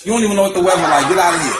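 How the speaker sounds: fast, laughing through the brush-off; can't keep a straight face; laughing retort. Retold or imitated.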